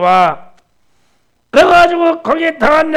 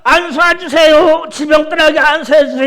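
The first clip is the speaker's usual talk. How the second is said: mock pleading request; 3 semitones higher than usual. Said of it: "이게 아니야".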